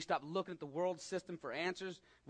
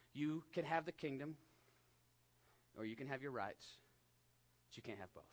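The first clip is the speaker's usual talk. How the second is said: quiet, reverent message; 2 semitones lower, 6 dB quieter than usual. Shown as a demonstration. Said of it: "what I felt like God was saying".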